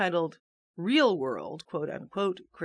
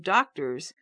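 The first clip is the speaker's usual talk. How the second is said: "doctors" in lower, ironic scare quotes; 4 semitones lower than usual. Shown as a demonstration. Reader mocking the fake interns' title, ironic scare quotes. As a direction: lean sceptically on "doctors", as a so-called title.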